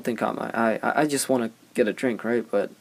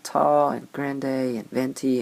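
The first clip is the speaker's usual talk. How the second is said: slow, condescending listing; snooty barista; 3 semitones higher, slower than usual. Retold or imitated. Barista lists sizes to the customer, slow and condescending. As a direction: spell it out slowly to the clueless customer. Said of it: "she's like".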